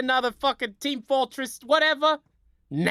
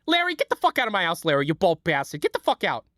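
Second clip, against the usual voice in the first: Susie Greene impression; 4 semitones lower, faster than usual. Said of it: "Susie from Curb Your Enthusiasm".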